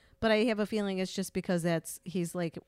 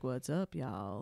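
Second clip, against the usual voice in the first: put-on low, softer Texan accent; Texan man; 8 semitones lower, 8 dB quieter, slower than usual. Showing a man's sexy Texan accent, low. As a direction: drop the pitch for a Texan guy. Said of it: "if a man's like".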